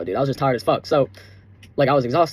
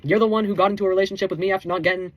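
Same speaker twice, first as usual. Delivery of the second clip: higher, fast indignant retort; 5 semitones higher than usual. Real, not acted. Speaking straight to his ex, indignant and raised. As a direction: call her out, rising.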